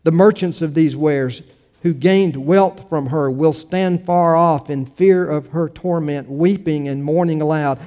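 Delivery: measured, solemn public Bible reading; scripture reading. Acted. Pastor reading scripture to the congregation, measured and declamatory. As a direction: read it out with emphatic phrasing.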